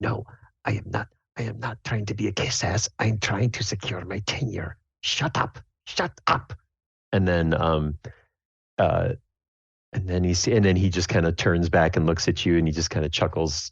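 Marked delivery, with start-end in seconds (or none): 0.0-6.5 very quiet muttering under the breath. Telling a story, acting out a twitching man talking to himself, muttering very quietly. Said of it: "you hear him mutter really quietly".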